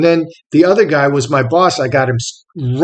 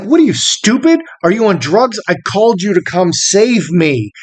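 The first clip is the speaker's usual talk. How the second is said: higher, exasperated comeback, re-enacted; indignant retort; 4 semitones higher than usual. Captive to the chief he called for rescue, in mild indignation. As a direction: throw it back at him, incredulous.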